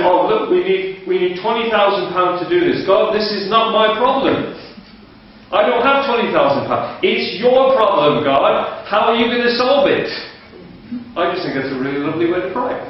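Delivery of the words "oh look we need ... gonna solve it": higher, earnest prayer handing over the problem; mild mock prayer to God; imitating the pastor's prayer. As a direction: pray it up and pleading, lightly voiced. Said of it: "So he said".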